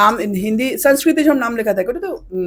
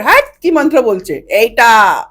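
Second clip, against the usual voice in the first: mock scolding; 7 dB louder, slower than usual. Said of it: "আমি বকা খেয়েছি".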